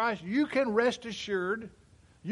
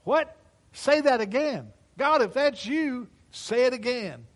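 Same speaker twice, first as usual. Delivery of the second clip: excited; 3 semitones higher, 5 dB louder than usual. Retold or imitated. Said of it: "that I actually said".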